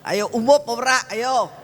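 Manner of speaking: high, rising mock challenge "umup"; teasing mom. Mother taunting children glued to phones, high and teasing. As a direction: goad the kids, getting shriller. Mocking the kids' excuses.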